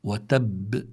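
وتب with a held, doubled b and a bouncing release; وتب ending on a firm double b; doubled final ba. Shown as a demonstration. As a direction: press the final b of وتب, then let it pop. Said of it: "فبدي أقول".

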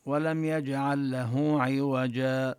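slow recitation ending on عوجا; verse-end stop in recitation; stopping at verse end. Shown as a demonstration. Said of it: "فالإنسان لو قرأ".

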